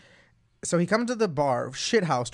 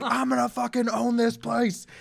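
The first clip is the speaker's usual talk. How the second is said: put-on drunk boast; 8 semitones higher than usual. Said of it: "he's like".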